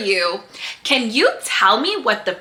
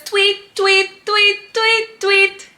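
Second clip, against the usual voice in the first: bird tweeting; 4 semitones higher, slower than usual. Pretend. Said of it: "And she says".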